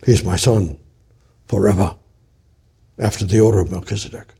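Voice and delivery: lightly voiced God, pitched low; God swearing. Preacher quoting God's oath about his son, low and solemn.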